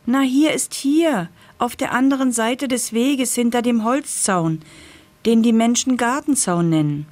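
high, eager pumpkin voice; a lightly voiced excited pumpkin.

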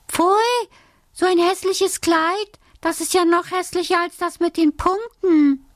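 lightly voiced cross little girl, high; a mock angry cry of disgust; a hint of a child's tantrum, pitched high; angry outburst. A narrator's reading. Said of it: "wurde sie sehr böse und schrie".

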